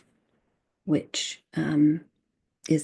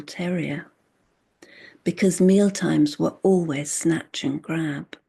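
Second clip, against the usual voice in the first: deliberate poetry reading with a repeated refrain; measured recital of a poem; poem recitation. Acted. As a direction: set the refrain apart, then press through each reason.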